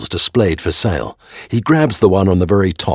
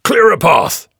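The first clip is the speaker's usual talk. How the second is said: loud high shout of Clear a path with the weight on clear; calling out; 8 dB louder, slower than usual. A narrator's reading. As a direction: bark Clear a path across the crowd. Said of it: "Gessler calls out to the crowd".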